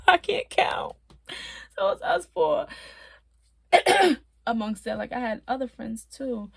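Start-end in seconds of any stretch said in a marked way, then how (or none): 0.1-1.0 breathy giggling aside; laughing whisper. Real, not acted. Laughing at herself while counting friends, whispered.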